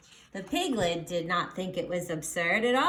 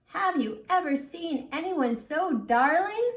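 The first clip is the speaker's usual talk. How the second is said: high, loud gushing; gushing wife; 7 semitones higher, 4 dB louder than usual. Acted. Wife gushes to husband over the swaddled piglet, high. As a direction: gush over the darling piglet.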